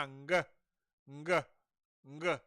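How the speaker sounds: "ng" released as "nga" with hard g. Shown as a demonstration. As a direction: hit a g after the nasal in "ng". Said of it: "This does not have an apostrophe".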